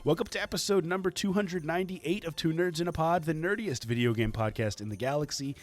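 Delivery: hyped host introduction; booming kids show opener. Acted. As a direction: announce the co-host like a wrestler.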